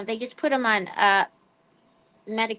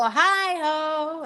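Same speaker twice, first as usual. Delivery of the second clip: voicing the dog; 5 semitones higher than usual. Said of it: "And Cookie would go".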